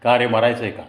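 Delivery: a firm telling-off; stern repeated scolding. Retold or imitated. Biker teasing an old classmate who doesn't recognise him, mock stern. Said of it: "पुन्हा मी तोच प्रश्न केला".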